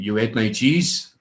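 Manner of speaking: lightly imitated German accent; slow, accusing question in a German accent; retold demand in a mock German accent. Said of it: "In this German accent".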